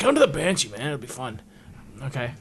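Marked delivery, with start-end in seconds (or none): 0.0-1.4 friendly, coaxing, inviting voice. Retelling a friend's text inviting him to a bar: Brian's voice. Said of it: "this is Brian's voice".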